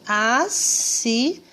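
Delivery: "Assinado" slow, split into syllables; teacher sounding out "Assinado" slowly. Shown as a demonstration. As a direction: stretch and separate each syllable of "Assinado". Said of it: "Quando eu falo as, percebe o sonzinho do S".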